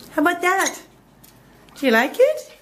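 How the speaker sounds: high rising coo; talking to a pet bird. Real, not acted. Talking to her cockatiels.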